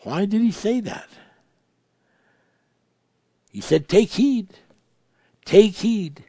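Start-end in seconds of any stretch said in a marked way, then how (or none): 3.9-6.2 raised, urgent double warning. Retold or imitated. Preacher warning the congregation, raised and urgent. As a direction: hit both words hard as Jesus' command.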